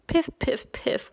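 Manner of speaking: little piff sniffles fading off; whimpering. A narrator's reading. Fox whimpers after Brownie, fading mock whimper. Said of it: "whimpered the fox".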